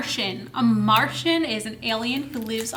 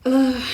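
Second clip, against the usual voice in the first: frustrated ugh; 5 dB louder than usual. Shown as a demonstration. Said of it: "I go".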